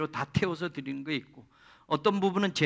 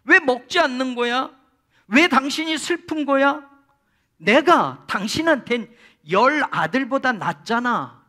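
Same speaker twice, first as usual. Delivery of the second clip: husband consoling; 5 semitones higher, 6 dB louder than usual. Retold or imitated. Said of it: "남편 엘가나가 한나에게 말해요".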